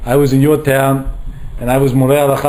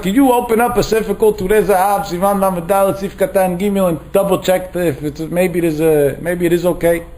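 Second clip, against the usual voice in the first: put-on higher, pleading little girl asking a favor; six-year-old begging the rabbi, higher childlike voice; 5 semitones higher than usual. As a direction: plead up high like a small child.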